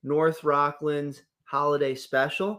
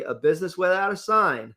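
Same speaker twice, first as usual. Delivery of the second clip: passion and glee; 4 dB louder than usual. Real, not acted. Co-host reading a sponsor's favourite slogan, passionate and gleeful. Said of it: "You say it with such passion and glee".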